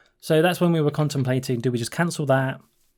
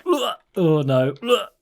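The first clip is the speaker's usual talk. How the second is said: mock retching, drawn out; imitated gagging; 5 semitones higher, slower than usual. Traveller imitating a tourist hearing about fishy food, mock gagging. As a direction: act out a disgusted gag, a bit. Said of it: "kinda gagging a bit".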